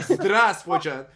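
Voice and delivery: Здравствуйте slow and forward in the mouth; drawn-out, careful Russian Здравствуйте; front-of-mouth Russian. Shown as a demonstration. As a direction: demonstrate Здравствуйте with the consonants right at the front. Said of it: "really in the front of your mouth".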